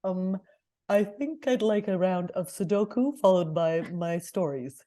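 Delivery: slow, lightly voiced old dog; a hint of a tired old dog. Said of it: "my twenty-year-old dog goes like this".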